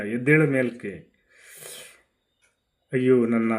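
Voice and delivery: grieving queen's lament over her fallen husband; a widow's loud, bitter lament; Tara lamenting. Acted. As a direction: wail it out to the dead king, reproachful and mournful.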